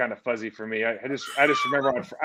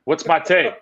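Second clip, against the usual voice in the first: laughing quote; 5 dB louder than usual. Retold or imitated. Retelling Ray's confused question.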